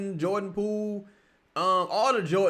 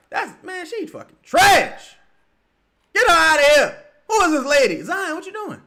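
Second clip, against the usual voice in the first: loud, high rant at the ref; real furious yelling; angry shouting; 7 semitones higher, 8 dB louder than usual. Real, not acted. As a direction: tear into the referee. Raging at the referee.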